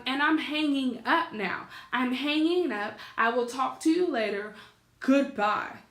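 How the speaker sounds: curt, emphatic retold sign-off; firm, heated farewell, each phrase punched; pissed off. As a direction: reenact cutting grandma off angrily. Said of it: "I handled my grandmother like that".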